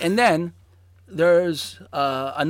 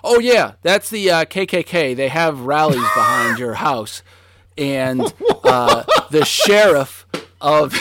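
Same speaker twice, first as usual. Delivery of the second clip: casual classmates; 2 semitones higher, 6 dB louder than usual. Retold or imitated. Classmates telling the new kid about rallies, breezy and laughing. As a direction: toss it off like it's nothing. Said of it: "And they go".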